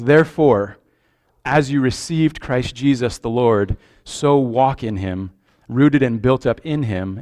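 measured, deliberate reading of the text; preacher reading Colossians to the church; scripture reading. Acted. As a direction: read the passage with weight, unhurried. Reads scripture aloud.

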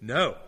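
firm, emphatic retold refusal. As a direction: land a single decisive word, quoting. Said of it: "Jesus says emphatically".

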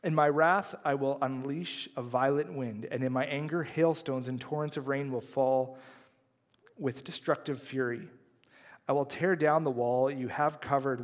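measured, earnest Bible reading; scripture reading. Acted. Pastor reading Ezekiel to the congregation, solemn read. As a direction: read God's warning with weight.

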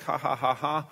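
spoken-out ha-ha of laughter; open, acted "ha ha" laugh; imitated joyful laugh. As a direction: mimic Sarah's happy laugh. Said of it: "God has brought me laughter".

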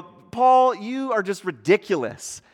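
mock exclamation, loud high attack on "Paul"; acted scoffing. Scoffers answering Paul's preaching, dismissive.

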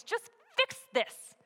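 high, loud, slow, pleading in frustration; angry plea. Acted. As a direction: beg him to stop, angry and desperate. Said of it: "the other is so angry".

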